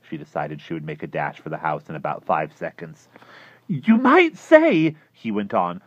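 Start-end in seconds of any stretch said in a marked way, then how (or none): 3.7-4.9 much higher and louder, intense; tense high voice. Acted. Klausner confiding in his neighbor, feverish. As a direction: lean in with a feverish secret.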